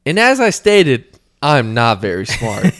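slow, deliberate quote of a dim poster; mock poster quote. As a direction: slowly savour each word. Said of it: "I just like how he said".

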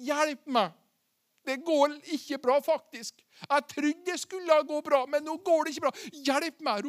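a touch of acted panic; mock cry for help. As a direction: imitate a man calling for help, without shouting. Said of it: "og Peter roper ut".

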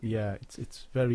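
muffled voice, as if behind a hand. Real, not acted. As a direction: talk with your mouth covered. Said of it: "you've gone a bit muffled".

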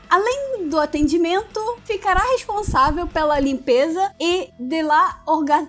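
hammed-up Italian accent; mock Italian reading a job ad; Italian accent portuguese. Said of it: "fazer o sotaque italiano".

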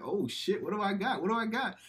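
high-pitched imitation of an eager boy; mock birthday excitement, pitch climbing; excited kid. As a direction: act the kid dying to see his present. Acting the kid opening a present.

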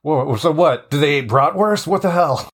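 playful, confused questioning; baffled officer. Pretend. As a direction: react like a clueless, incredulous officer. Continues the baffled officer bit.

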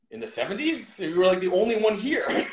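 high laughing retort. Retold or imitated. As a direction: laugh through the comeback. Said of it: "And I was like".

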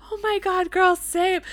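high-pitched imitated fangirl gush; excited agreement. Fan agrees with seatmate about crying, imitated excited gush. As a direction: mimic a gushing concert friend. Retold fan's emotional agreement.

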